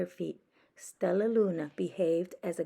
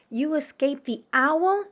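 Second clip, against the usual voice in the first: high, loud joyful disbelief; crying out; 9 semitones higher, 8 dB louder than usual. Acted. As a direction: cry out in happy amazement. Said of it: "cried Stella Luna".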